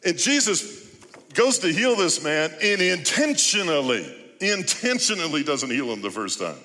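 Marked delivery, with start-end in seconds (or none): none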